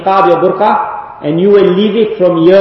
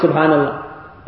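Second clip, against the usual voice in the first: slow soft dhikr; 3 semitones lower, 8 dB quieter, slower than usual. Acted. Whole crowd doing dhikr.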